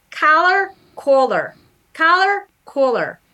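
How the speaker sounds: collar said with one merged vowel, repeated; merged vowel demo. Shown as a demonstration. Linguist demonstrating her merged vowel in collar. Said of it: "I have the merger, so it's".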